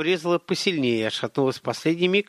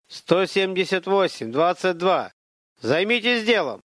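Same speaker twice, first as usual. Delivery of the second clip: higher, drawn-out call to order; guard's order; 6 semitones higher, slower than usual. A narrator's reading. Guard orders two idle trainees back to work, calling out. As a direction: call out the numbers slowly, pitched up.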